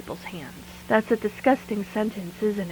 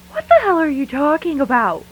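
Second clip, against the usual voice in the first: louder, higher, alarmed demand; scared angry shout; 6 semitones higher, 6 dB louder than usual. Acted. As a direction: shout at him through fear. Confronting Gordon at her car.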